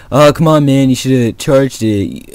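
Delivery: mildly annoying group whine; mock pestering. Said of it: "they were kinda getting annoying".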